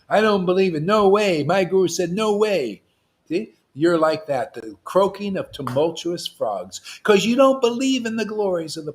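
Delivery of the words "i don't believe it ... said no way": louder, higher scoffing disbelief; mock scoffing. Preacher mocking a rival guru's scoffing disbelief. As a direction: scoff it off like a doubter. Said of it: "Narayan Maharaj Guru".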